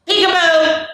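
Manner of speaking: high, bright peekaboo call; playful peekaboo. Acted. Playing peekaboo with the kids, high and playful. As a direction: surprise the baby with it.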